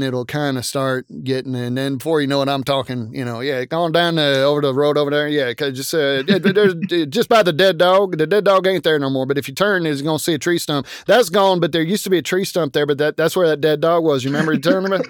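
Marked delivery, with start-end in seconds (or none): 3.4-15.0 a lightly voiced Southern country accent; Southern drawl. A guest shows his Southern country accent, lightly done. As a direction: ramble in a mild Southern drawl. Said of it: "if you get me going".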